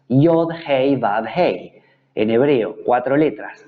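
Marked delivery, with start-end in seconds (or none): 0.1-1.8 Yod, Hei, Vav, Hei named letter by letter, each one separate; spelling out Hebrew letters. Shown as a demonstration. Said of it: "porque son cuatro letras". (deletreando Yod, Hei, Vav, Hei letra por letra)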